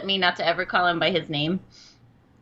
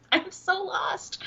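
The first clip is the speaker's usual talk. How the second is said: laughing confusion; 12 semitones higher, 5 dB quieter, much slower than usual. Real, not acted.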